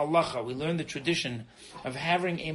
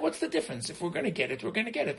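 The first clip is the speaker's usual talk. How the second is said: mock fatalist; faster than usual. Rabbi imitating fatalists who shrug off masks, dismissive. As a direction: toss it off like nothing matters. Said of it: "They say, like".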